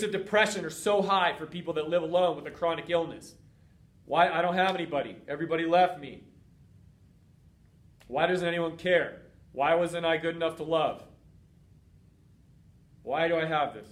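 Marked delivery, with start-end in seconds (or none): 4.0-13.9 lonely lament. Retold or imitated. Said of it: "When you're lonely".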